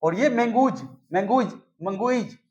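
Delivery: "मैंगूज" with a stretched oo vowel that changes the word; teacher shows the wrong "मैंगूज"; wrong plural demo. Shown as a demonstration. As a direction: distort it into "मैंगूज, मंगुइज". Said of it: "फिर last में बोल के हटना पड़ता है".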